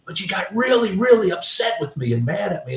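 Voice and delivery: lightly voiced grandson telling on mom; child grandson voice.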